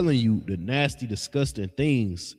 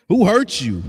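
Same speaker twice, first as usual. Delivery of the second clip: laughing through the question, higher; real laugh breaking into the words; 7 semitones higher, 5 dB louder than usual. Real, not acted. Preacher mocks the morning weed smoker, laughing. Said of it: "I'm laughing".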